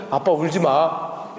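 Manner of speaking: put-on soft, slow and low, a child soothing his dad; son's gentle comfort. Young son tells his weeping father not to cry, soft and slow. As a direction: quietly hush a crying father.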